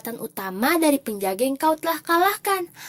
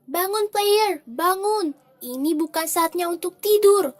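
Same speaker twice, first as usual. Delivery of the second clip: calling out; 4 semitones higher, 4 dB louder than usual. Acted. Guide calls out to wake player.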